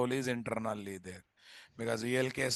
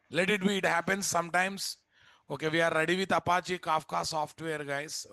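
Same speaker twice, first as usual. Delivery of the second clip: brisk moving on; 5 semitones higher than usual. Real, not acted. Brushing off, moving on.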